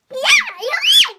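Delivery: high, loud delighted praise; squealed congratulation; excited cheer. Pretend. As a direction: shout out the win in a high voice. Cheering a right answer.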